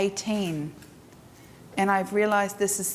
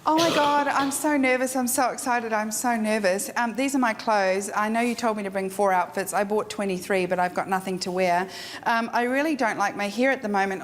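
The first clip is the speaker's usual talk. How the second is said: nervous client; faster than usual. Retold or imitated. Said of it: "they go like this".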